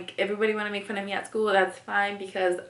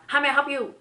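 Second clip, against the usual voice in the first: nail salon greeting; 7 semitones higher, 5 dB louder, faster than usual. Retold or imitated. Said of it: "they greet us with a".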